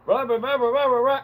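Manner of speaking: high, blustery mock rant; hammed-up rah-rah yelling. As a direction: imitate an angry customer yelling nonsense. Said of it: "he was still yelling at her".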